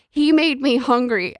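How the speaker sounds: a hint of a whiny child; mock child. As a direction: imitate a sad twelve-year-old. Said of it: "And he's like".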